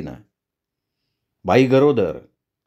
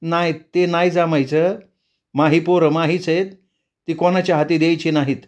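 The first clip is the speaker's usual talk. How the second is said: higher, a touch of sadness, quickening; gently refuse, a hint of sorrow; sad village woman; 4 semitones higher than usual. The mother refuses to hand over her child, lightly sad and higher. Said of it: "तशी ती उदास हसली".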